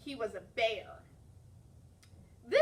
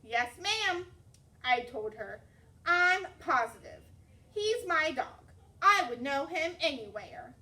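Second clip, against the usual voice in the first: eager assurance; 3 semitones higher, 5 dB louder than usual. Acted. Girl assures the librarian the dog is hers, eager.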